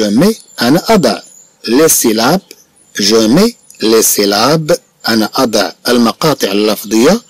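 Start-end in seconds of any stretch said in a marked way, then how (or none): 2.9-4.8 very slow, syllable by syllable; slow dictation. Shown as a demonstration. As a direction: read slowly for the pupils to follow.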